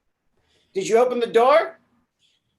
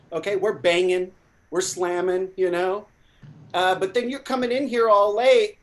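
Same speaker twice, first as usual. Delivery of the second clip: bossy scolding voice; scolding boss. Acted. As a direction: chew out the late employee. Plays angry boss.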